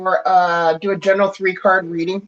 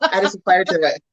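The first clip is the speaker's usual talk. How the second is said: laughing. Real, not acted. Laughs about fiery talker.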